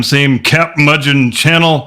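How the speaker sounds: slow, drawn-out sign-off; announcer catchphrase. Acted. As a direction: stretch it like a TV announcer.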